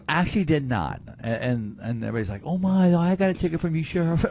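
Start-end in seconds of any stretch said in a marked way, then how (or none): 2.5-4.3 very high, loud mock exclamation; hammed-up imitation of a flustered citizen, pitched way up; mock gushing. Sheriff mimicking everybody reacting to his ticket, mock gushing.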